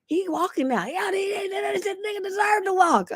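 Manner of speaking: imitating the driver. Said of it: "He's, he's like".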